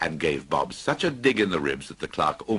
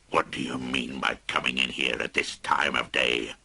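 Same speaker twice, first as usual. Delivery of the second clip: lower, gruff pretend scolding; mock growl; 5 semitones lower than usual. Scrooge scolds Bob for being late, mock gruff. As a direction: pretend to be the old miser. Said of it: "growled Scrooge".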